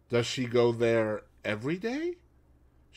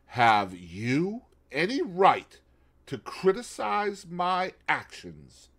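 cool and calm; 5 semitones higher, slower than usual. Acted. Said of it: "cool and liquid".

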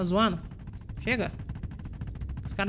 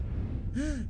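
gasp; 6 semitones higher, 6 dB quieter than usual. Real, not acted. Thinks he placed wrong ship.

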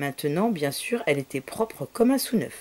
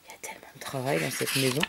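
quick, lower whispered aside; hurried whispered aside about the mess; fast whisper; 5 semitones lower, 6 dB quieter, much faster than usual. Real, not acted. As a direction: rush it out under your breath. Narrator's aside to child.

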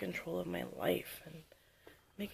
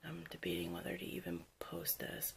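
after crying. Real, not acted. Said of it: "It's pretty raw right now".

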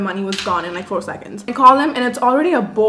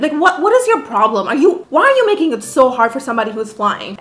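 retold exasperation with raised pitch; exasperated; 3 semitones higher than usual. Guest confronting unhelpful Airbnb host, exasperated. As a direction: demand an explanation, fed up.

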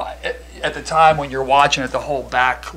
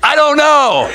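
high, loud, frantic rambling; a lost caller scrambling for answers; panicked caller; 11 semitones higher, 10 dB louder than usual. Retold or imitated. Retold panicked 911 call.

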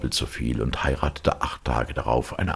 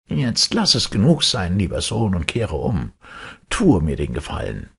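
kindly Death, voiced much higher; Death's voice; 5 semitones higher than usual. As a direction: speak as gentle Death, pitched up. Death asks him to turn back.

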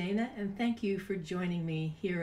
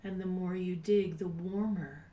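soft guided meditation. Acted. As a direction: guide them gently into calm, breathy and unhurried. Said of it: "It's time to do a meditation".

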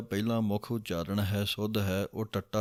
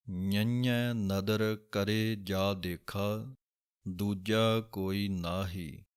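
slow, careful Gurbani line reading; slow recitation; much slower than usual. Shown as a demonstration. Teacher reciting a scripture line slowly. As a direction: recite each word slowly and clearly. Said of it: "ਇਸ ਤਰ੍ਹਾਂ ਇਹਦਾ ਉਚਾਰਨ ਹੈ".

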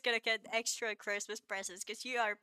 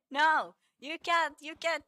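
mock stern no; 5 semitones higher, 7 dB louder than usual. Playfully forbidding chat.

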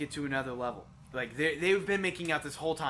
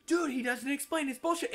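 high-pitched mock complaint; high mocking imitation; mocking quote; 9 semitones higher than usual. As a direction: whine it high, imitating your friend's griping.

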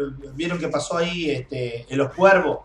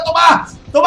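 high, loud strained cry; real strained yell; crying shout; 9 semitones higher, 8 dB louder than usual. Real, not acted. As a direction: shout while struggling. Fighting back, crying out.

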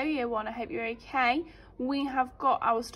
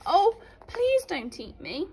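pleading; 7 semitones higher, 4 dB louder, slower than usual. Acted. Little goat pleads.

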